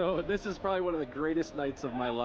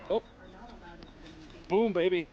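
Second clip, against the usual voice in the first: excited cheer. Real, not acted. Cheering at the fort.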